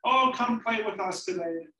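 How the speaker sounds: lightly voiced pigs calling a playmate over; playful little pigs. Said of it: "and said".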